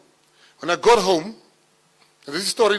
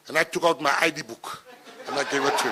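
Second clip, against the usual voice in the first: laughing; faster than usual. Real, not acted. Laughing at own ID joke.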